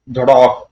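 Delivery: punched-out crash of a blow; spoken thud effect. A narrator's reading. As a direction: slam the word like an impact. Sound of a blow in story. (धमाकेदार प्रहार की आवाज़)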